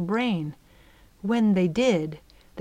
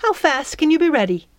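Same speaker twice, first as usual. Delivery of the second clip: brisk fairy; 8 semitones higher, 5 dB louder, faster than usual. A narrator's reading.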